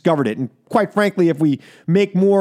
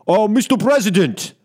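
mock Putin. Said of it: "try to do a Putin".

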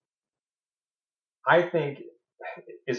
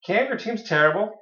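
blunt mock insult; 10 semitones higher than usual. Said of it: "It's how you say it".

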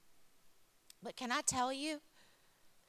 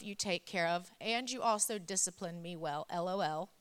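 reading a card aloud. Acted. Reads daughter's card to audience.

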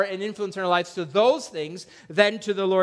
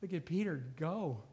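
disciples marvelling; 12 dB quieter than usual. Retold or imitated. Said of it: "the rest of the disciples are like".

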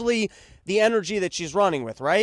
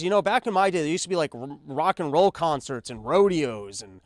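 put-on nostalgic old parent; 4 semitones lower than usual. Parent telling kids about the old days, lightly voiced old-timer. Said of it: "you're gonna be talking to your kids".

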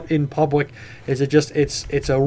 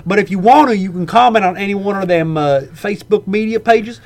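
higher-pitched, hammed-up podcast sign-off; playful put-on announcer voice; mock announcer outro; 4 semitones higher than usual. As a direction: wrap up the show like a comic emcee.

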